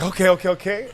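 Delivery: eager agreement. Retold or imitated. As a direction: retell jumping at the chance. Excited retelling of own reply.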